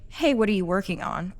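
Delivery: light, casual curious ask; friendly question. Shown as a demonstration. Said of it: "They sound completely different".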